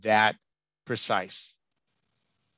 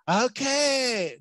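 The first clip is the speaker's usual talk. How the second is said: high, drawn-out bad Texas accent; 10 semitones higher than usual. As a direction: do a grandmother with a badly faked Texas accent. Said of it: "supposed to be a bad Texas accent".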